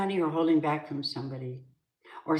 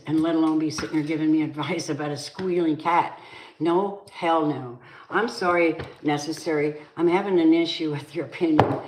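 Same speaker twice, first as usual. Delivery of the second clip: rising heated voice, louder toward the end; furious argument building to a louder peak; real angry rant; 3 dB louder than usual. Real, not acted. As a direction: tell them off, fed up and getting louder. Heated argument with person giving advice.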